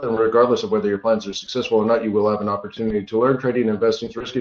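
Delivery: rapid disclaimer read. Real, not acted. Host reciting the education and risk disclaimer, rattled off. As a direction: rattle through the small print in one run.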